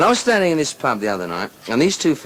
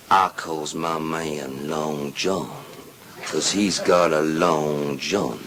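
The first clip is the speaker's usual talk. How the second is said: woman's brag voice; 7 semitones lower, 3 dB quieter, much slower than usual. Acted. First woman brags about husband.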